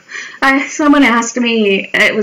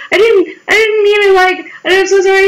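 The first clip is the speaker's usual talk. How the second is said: imitating his apology; 10 semitones higher, 3 dB louder than usual. Apologetic man retold.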